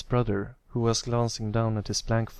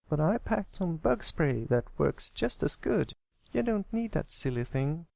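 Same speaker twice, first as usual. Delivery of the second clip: drawling filly; 7 semitones higher than usual. Acted. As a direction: stretch it out teasingly. Applebloom voiced.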